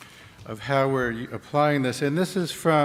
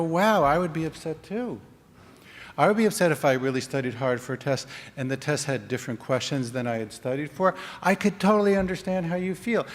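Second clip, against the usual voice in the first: sympathetic. Shown as a demonstration. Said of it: "And you go".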